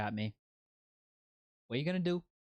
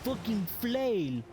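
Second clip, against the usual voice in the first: panicked yelling; 8 semitones higher than usual. Real, not acted. Streamer facing a big flail guy, panicked high shouting. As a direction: yell in rising panic.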